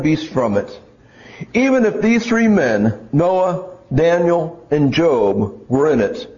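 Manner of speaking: measured Bible reading with deliberate pauses; scripture reading. Acted. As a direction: read it out solemnly, phrase by phrase. Reads a prophetic passage aloud.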